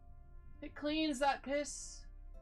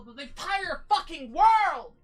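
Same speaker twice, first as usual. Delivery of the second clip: grand dramatic shout; 3 semitones higher, 9 dB louder than usual. Pretend. Grandiose address to chat.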